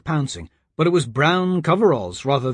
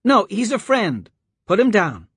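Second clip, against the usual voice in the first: put-on girl's voice; 7 semitones higher than usual. A narrator's reading. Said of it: "girl's plea".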